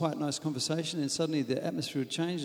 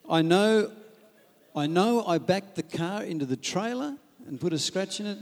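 louder, higher, slowing into a whiny protest; defensive husband; 7 semitones higher, 5 dB louder than usual. Acted. Husband excusing the scratched car to wife, loud and defensive. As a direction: argue back like a hurt husband.

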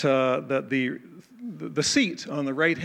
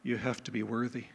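hushed, reverent angel's reply, softer; reverent near-whisper; 2 semitones lower, 6 dB quieter than usual. Retold or imitated. Angel leaning toward John, reverent, almost whispered. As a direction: lean in and say it softly and reverently. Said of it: "reverently, almost in a whisper".

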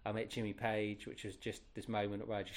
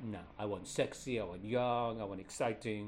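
lightly put-on French accent; a hint of French boss's accent; a touch of French accent, demanding. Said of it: "I won't continue to do the, the, the accent".

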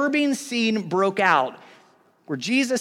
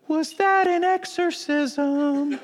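mock stunned question; 6 semitones higher, much slower than usual. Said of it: "he goes".

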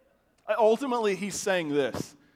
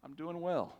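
slow delayed answer; 9 dB quieter, slower than usual. Retold or imitated. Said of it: "And he would do this. He'd go".

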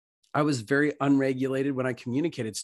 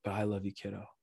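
soft, gentle fatherly reassurance; tender fatherly; 3 semitones lower, 9 dB quieter, faster than usual. Retold or imitated. Heavenly Papa comforting his kid, soft and tender. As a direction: softly reassure a child, lightly voiced. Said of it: "a Heavenly Papa is gonna be like".

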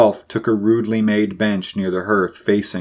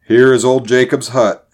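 raised, projected announcement; announcing; 3 semitones higher, 6 dB louder than usual. A narrator's reading. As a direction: call it out a little louder and higher. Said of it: "announced Buckner".

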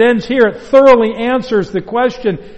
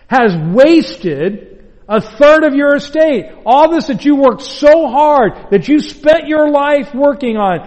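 growing bitterness; 3 semitones higher than usual. Acted. Older son accusing his father, more and more bitter. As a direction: spit out years of grievance. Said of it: "more and more bitter".

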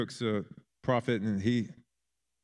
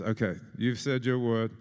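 put-on English accent. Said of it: "I've fallen into an English accent".

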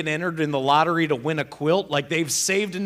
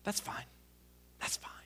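barely audible, much softer; muttered resignation; 19 dB quieter than usual. Real, not acted. Telling the audience the supervisor won't talk, muttered softly. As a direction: mutter it to yourself, defeated.

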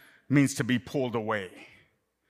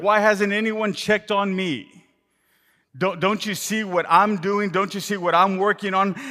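frustrated Martha; 6 semitones higher, 4 dB louder than usual. Acted. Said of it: "Martha is frustrated because she feels like".

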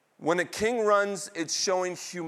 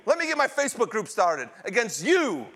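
higher-pitched acted threat; mock indignation; 5 semitones higher than usual. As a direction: huff it out as a hammed-up protest. Acted protest against the king continues.

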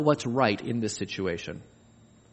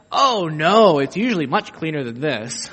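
mock modest host; 4 dB louder than usual. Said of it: "lie to the people and say".

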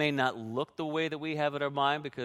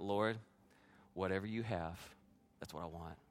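soft prayer, sinking lower at the end; retold surrendering prayer; 4 semitones lower, 5 dB quieter than usual. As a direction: quietly give in to God, as retold.

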